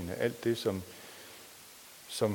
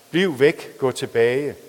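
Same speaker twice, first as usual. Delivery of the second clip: higher, louder cry to keep away; desperate warning; 3 semitones higher, 9 dB louder, slower than usual. Acted. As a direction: push him back with the voice. Sara warns Michael off. (desperat råb om at holde sig væk)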